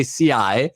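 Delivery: C I said as the Italian word "see-AH-eh"; C I in Italian, vowels sounded separately; Italian pronunciation. Shown as a demonstration. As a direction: pronounce C I the Italian way, as one word. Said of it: "in Italy we say".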